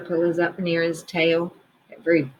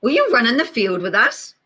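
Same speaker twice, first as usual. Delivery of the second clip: dog voice; 5 semitones higher, 4 dB louder than usual. Acted. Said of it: "said Dog".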